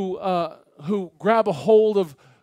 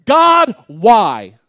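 anguished plea; 3 semitones higher, 13 dB louder than usual. Retold or imitated. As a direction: cry out the two-word prayer, drawn out and loud. Repeats the two-word prayer aloud.

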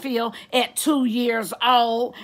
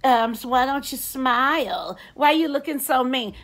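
mocking a catcaller; 3 semitones higher than usual. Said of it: "it better not be".

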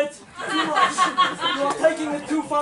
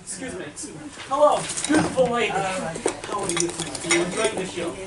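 put-on Russian accent; 6 semitones lower, 7 dB quieter, faster than usual. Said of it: "KGB comedy act".

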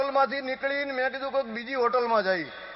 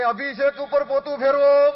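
louder mock waiter holler, laughing through it; waiter shouting; 2 semitones higher, 5 dB louder than usual. Waiter hollering an order across the hotel, mock shout. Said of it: "જોરથી રાડું નાખે, બૂમ મારે".

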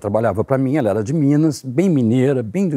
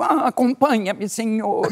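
polite clerk; 6 semitones higher, slower than usual. Retold or imitated. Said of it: "Eu falei".

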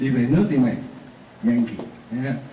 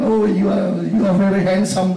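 mock flattery; 5 semitones higher than usual. Teacher acts flattering the boss.

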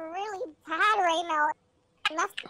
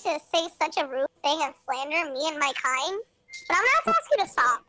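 mock formal indignation. Mock-offended formal speech.

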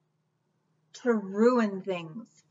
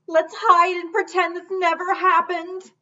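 higher, louder prim voice; fussy ostrich; 7 semitones higher, 7 dB louder than usual. Acted. Ostrich tells Taylor to hide, prim higher voice. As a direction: suggest hiding like it's proper.

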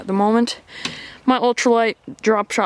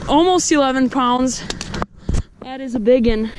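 excited; 3 semitones higher, slower than usual. Real, not acted. Weighing a big catch.

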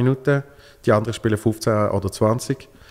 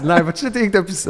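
mild disbelief; 9 semitones higher than usual. Retold or imitated. Disbelieving offer.

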